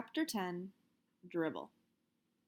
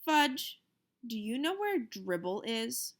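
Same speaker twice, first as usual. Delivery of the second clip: calm; 2 semitones higher, slower than usual. Acted. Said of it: "I asked calmly".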